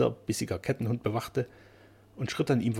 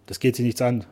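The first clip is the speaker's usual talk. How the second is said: grim, rough refusal, less loud; 6 dB louder than usual. Acted. Keeper answering the painter's question, rough and grim. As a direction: grind it out sullenly. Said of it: "rau und verbissen".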